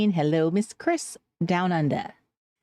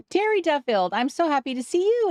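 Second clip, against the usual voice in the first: delighted greeting; 6 semitones higher than usual. Real, not acted. Delighted greeting of returning viewer.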